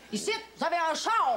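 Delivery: « char » dit à la québécoise, « chô »; québécois. Shown as a demonstration. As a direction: appuie sur « char » avec le a grave. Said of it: "En France, vous avez une voiture". (« un char » à la québécoise)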